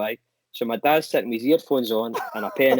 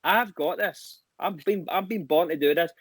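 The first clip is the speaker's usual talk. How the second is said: higher-pitched imitation of a self-assured dad; mock cocky confidence; 6 semitones higher than usual. Imitating dad before his stage debut, cocksure. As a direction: play up his confidence, voice lifted. Retelling dad's cocky reply.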